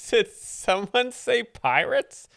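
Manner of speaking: high, slow hammed-up pirate call; mock pirate voice. Host jokes at the word pirates in a hammed-up high pirate voice. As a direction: ham it up like a cartoon pirate. Host's jokey put-on voice.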